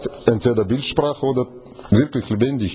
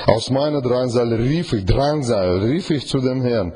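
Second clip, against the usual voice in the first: getragen vorgelesen; Bibellesung. Acted. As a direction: feierlich den Psalm lesen. Liest Bibeltext vor. (feierliche Bibellesung)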